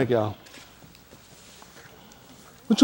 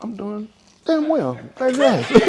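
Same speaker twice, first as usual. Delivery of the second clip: mock cheerful; 4 semitones higher, 3 dB quieter than usual.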